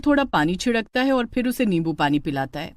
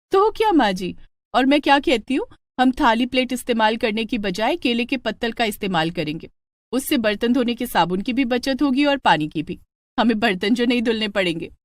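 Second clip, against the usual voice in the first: put-on young bride; 2 semitones higher than usual. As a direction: cheerfully push the stingy plan back. Mala voiced, mock-stingy.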